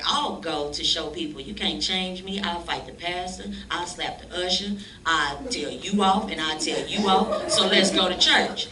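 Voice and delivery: loud swaggering boast, slowing on the threats; cocky boast. Retold or imitated. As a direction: brag you'll tell everyone off. Bragging about fighting at church.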